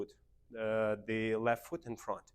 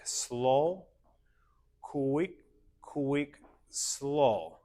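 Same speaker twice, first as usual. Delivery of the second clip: rhythmic calls with pauses, SLOW drawn out; dance step count; 3 semitones higher, much slower than usual. Shown as a demonstration. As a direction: call each step on its beat. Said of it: "we say slow".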